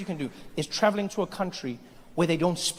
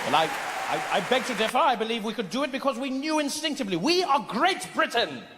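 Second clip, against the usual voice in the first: indignant British colonizer; 4 semitones higher than usual. Acted. Colonizer answers the Indian's challenge, indignant. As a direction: declare it as a proud Briton.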